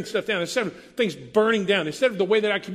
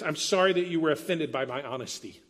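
fake apology; 3 semitones lower than usual. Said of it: "maybe it sounds like this".

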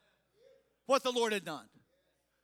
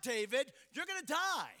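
fear's warning; 2 semitones higher than usual. Acted. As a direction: press the threat home as fear. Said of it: "Fear was screaming at him".

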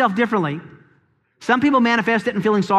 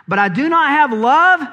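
building declaration; 6 semitones higher, 5 dB louder than usual. Acted. Preacher building to climax.

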